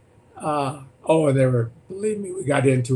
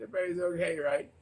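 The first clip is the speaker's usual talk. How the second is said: high, grinning hey hey hey with a laugh; fake cheery greeting; 7 semitones higher than usual. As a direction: beam like a grinning Cheshire cat. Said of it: "he's a Cheshire cat".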